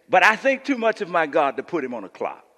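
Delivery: Doctor Fred Sampson. Retold or imitated. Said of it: "This is how he talked, y'all".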